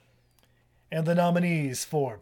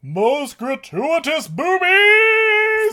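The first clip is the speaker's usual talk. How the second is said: excited announcement; 13 semitones higher, 10 dB louder, much slower than usual. Acted. Announces the big award category.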